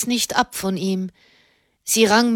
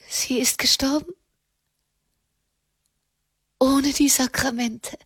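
hohe, gehauchte ungläubige Frage; fassungslos; 5 semitones higher than usual. Acted. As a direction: frage erschüttert, mit hoher, verhaltener Stimme. Daughter stunned by the death. (fassungslos und ungläubig)

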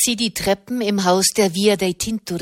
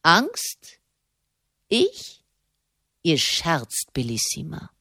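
indignant disbelief; slower than usual. Acted. Malavolti stung by accusation of fear.

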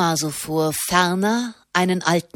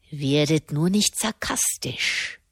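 softer, a touch of irritation; irritated; 2 semitones lower, 4 dB quieter than usual. Acted. Malavolti to Neri, mildly irritated. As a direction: brush off the teasing, annoyed. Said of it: "sagte er gereizt".

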